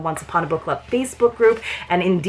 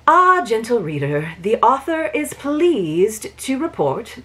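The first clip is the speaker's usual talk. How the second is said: Lady Whistledown's opening; 3 semitones higher than usual. Acted. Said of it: "how most of Lady Whistledown's reports start".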